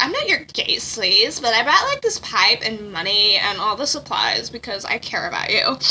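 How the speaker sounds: soft, low impression, sinking as it goes; Miklea. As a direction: imitate him quietly, letting the pitch drop. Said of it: "That's what you sound like, Miklea".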